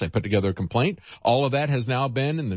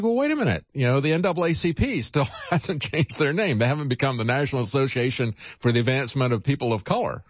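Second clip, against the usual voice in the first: sarcastic retort. Retold or imitated. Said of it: "And it's like".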